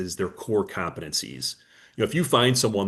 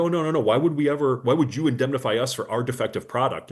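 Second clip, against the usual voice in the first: high, startled "oh no no no"; mock alarmed denial; surprised manufacturer; 4 semitones higher than usual. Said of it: "they're like".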